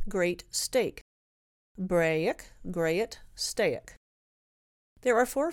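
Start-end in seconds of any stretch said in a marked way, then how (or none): 1.8-4.0 put-on "Braic, grayet, staic" with the old open vowels; "Braic" like "brayic", "grayet" in two syllables; old pronunciation. Shown as a demonstration. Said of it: "original pronunciation".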